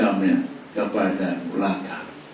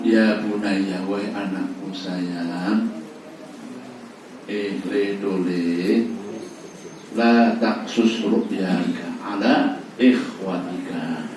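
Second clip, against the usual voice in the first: gentle and tender; much slower than usual. Acted. Yakub tells his son Yusuf tenderly, gentle. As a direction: croon it to a beloved son, slowly. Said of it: "intonasi yang lemah lembut".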